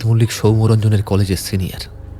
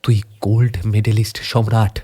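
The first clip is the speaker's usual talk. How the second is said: distressed pleading; 3 semitones higher than usual. Acted. Friend sees beaten friend in lockup.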